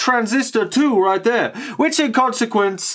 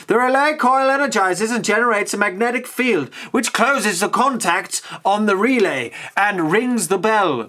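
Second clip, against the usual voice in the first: lightly posh English reading voice; 3 semitones higher than usual. Acted. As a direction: put on a posh accent. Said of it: "I'm slowly going into the posh voice".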